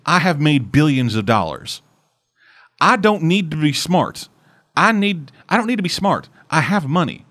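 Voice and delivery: smug Southern tycoon, dismissive; Southern accent. Retold or imitated. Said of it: "I give him the Southern accent".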